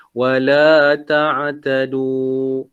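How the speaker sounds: slow "Wala ta'tadu", the final du held only two counts; two-count ending. Shown as a demonstration. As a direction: draw it out, ending briefly on "ta'tadu". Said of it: "Dua harakat sahaja".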